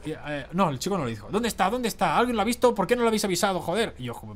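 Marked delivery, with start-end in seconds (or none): 1.3-3.9 retold frantic questioning, higher-pitched; recherche agitée imitée. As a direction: imitate someone searching in agitation. Imite l'homme qui le cherche.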